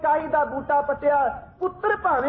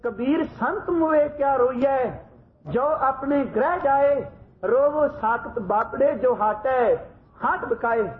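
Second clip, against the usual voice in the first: slow, solemn recited verse; grave recitation. Retold or imitated. Guru recites Kabir's verse to weeping Sikhs, grave and slow. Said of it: "ਗੰਭੀਰ ਆਵਾਜ਼ ਵਿੱਚ ਪੜ੍ਹਦੇ ਨੇ".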